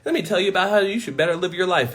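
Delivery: mock-polite busybody; mock polite lecturer. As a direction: imitate a busybody correcting a stranger. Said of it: "you're gonna come and be like".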